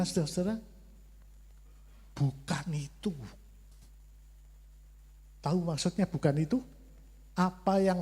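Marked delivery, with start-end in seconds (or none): 2.2-3.1 voice of God. Retold or imitated. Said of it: "Bicaranya gimana".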